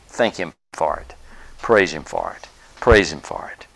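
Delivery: breathy whispered urging to thank God; hushed earnest whisper of praise. Real, not acted. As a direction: drop to an intimate whisper. Exhorting congregation to praise.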